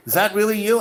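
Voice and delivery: high, amazed disbelief; surprised. Retold or imitated. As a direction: gasp it out in amazement. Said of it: "they're like".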